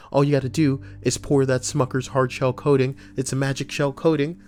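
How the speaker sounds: high, fast comic rant. Acted. Ranting high-pitched comedic bit.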